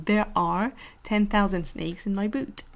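slow, lightly American; light American accent. Shown as a demonstration. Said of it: "L'accent américain".

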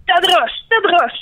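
high, hissed Gollum-like cry; creature cry. Acted. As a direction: croak it like a cave creature. Cri de la créature. (cri de créature aiguë, à la Gollum)

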